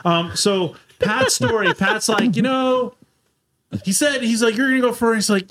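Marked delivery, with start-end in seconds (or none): 4.6-5.2 a higher, lightly voiced Pat; imitating Pat Gooden. Retelling a race story, friend mock-voices Pat higher. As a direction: play Pat, easygoing and higher up. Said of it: "I'm trying to do my best, Pat Gooden".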